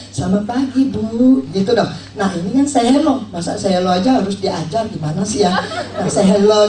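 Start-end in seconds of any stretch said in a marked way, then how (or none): 0.1-1.5 slow, friendly good morning; friendly greeting. Shown as a demonstration. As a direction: greet her gently and slowly. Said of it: "Saya langsung".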